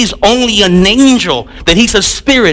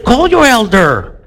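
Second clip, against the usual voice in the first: blunt wrong take; 3 semitones higher, slower than usual. Shown as a demonstration. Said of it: "I don't talk like that".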